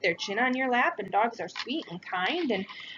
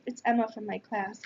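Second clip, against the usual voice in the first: ordinary delivery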